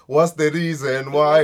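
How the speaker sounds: slow mock Zimbabwean. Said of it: "Zimbabweans people be like".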